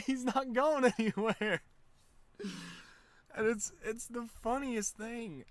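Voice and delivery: high, loud, slow words through real laughter; can barely get it out for laughing; laughing while telling about Ted running off. Real, not acted. Cracking up telling the story.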